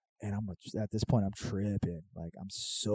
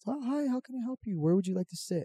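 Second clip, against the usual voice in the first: imitating the hostess; 11 semitones higher than usual. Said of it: "And the lady goes".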